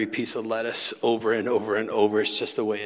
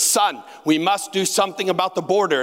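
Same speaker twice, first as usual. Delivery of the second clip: lightly voiced earnest father; 8 semitones higher, 4 dB louder than usual. Son voicing his ailing dad.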